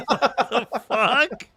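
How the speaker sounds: drawn-out, stunned what the fuck; slow disbelief. Retold or imitated. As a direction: let the shock stretch out slowly. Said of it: "I was like".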